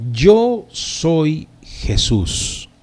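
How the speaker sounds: very slow, measured divine declaration; voice of Jesus. Acted. Preacher voices Jesus answering Saulo, slow and solemn. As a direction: announce it slowly, word by word. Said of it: "Y le dijo".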